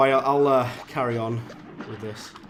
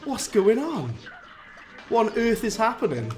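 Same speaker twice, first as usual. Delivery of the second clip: higher, louder, laughing disbelief at himself; exasperated outburst; 6 semitones higher, 4 dB louder than usual. Real, not acted. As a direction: rant at your own bad play, half laughing. Frustrated gamer losing boss fight.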